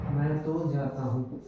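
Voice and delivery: तो pressed in मैं तो जाता हूँ; emphasis on तो; stress on तो. Shown as a demonstration. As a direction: lean gently on तो. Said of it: "ये स्ट्रेस वर्ब का काम करता है".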